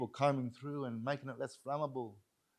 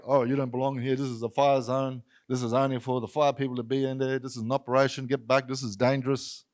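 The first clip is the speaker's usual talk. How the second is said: loud, insistent imitation of an official; stern warning; 9 dB louder than usual. Fire crew warning residents off the zone, imitated loud stern orders. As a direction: order people away in a raised voice.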